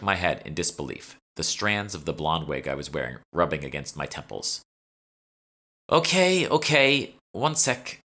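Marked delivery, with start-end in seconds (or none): 5.9-8.0 higher, louder flustered okays. Acted. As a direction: rush to placate the boss. Flustered fake assistant placating boss.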